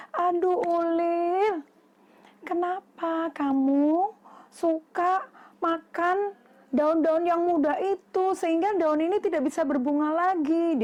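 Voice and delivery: mild storybook reproach to a caterpillar; complaining bee. Acted.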